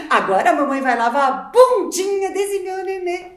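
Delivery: put-on baby talk. Mother to her baby at changing time, playful baby talk. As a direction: coo at the baby while laughing.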